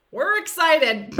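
mock-excited, slow and high, through laughter; laughing as you repeat it; laughing quote. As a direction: quote it while cracking up. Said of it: "love that all of that stemmed from".

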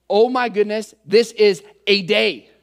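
emphatic, mock-overwhelmed complaint; acted exasperation. Churchgoer getting through a hard week, acted exasperation. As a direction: punch out the final words in exasperation.

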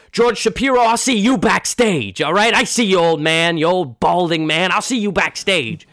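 loud, high call from the stage; mock taunting call. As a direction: taunt the manager across the room. Clifton calls from the stage.

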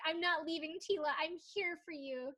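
hammed-up vow, retold for laughs; mock dramatic plea. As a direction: play the melodramatic refusal to go. Retold dramatic stand at front door.

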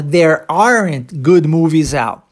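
slow, clear "There aren't good movies out"; careful correct form. Shown as a demonstration. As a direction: spell out "aren't" slowly and clearly. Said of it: "O certo seria falar".

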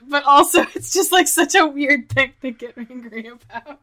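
high laughing tease. Real, not acted. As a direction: laugh while teasing. Teasing about a rant.

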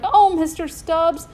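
high, loud, slow joyful cry. A narrator's reading. Boy greets his chimp found alive, crying out slowly. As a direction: draw out the name, overjoyed. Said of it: "Toby cried".

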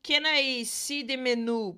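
relaxed, loud American ask; casual diner question; casual American request. Shown as a demonstration. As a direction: toss it off to the waiter. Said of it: "se você falar pro garçom assim".

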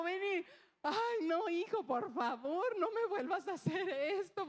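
laughing through relief, begging him; relieved pleading. Retold or imitated. Mother to her lost son, laughing in relief.

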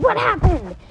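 high, loud, urgent asking; alarmed question. A narrator's reading. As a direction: demand to know, startled. Doctor alarmed, finds children amid wreckage.

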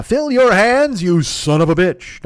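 loud, slow, drawn-out tough-guy call; movie gunfighter challenge. Acted. One-eyed fat man challenging his foes, slow gunfighter bellow. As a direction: bellow it slowly like a film cowboy.

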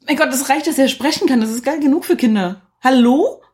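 as if it should be obvious to everyone; exasperated disbelief at grown-ups' demands. Real, not acted. Exasperated argument about a kids' film.

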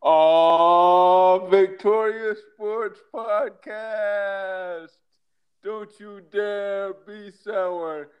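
booming hype-man intro, drawn out; announcer intro. Acted. The speaker delivers the podcast intro.

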